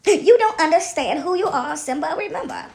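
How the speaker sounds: playful mentor figure, drawn out; hammed-up solemn reminder, pitch lifting at the end; in character. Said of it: "I love talking in character".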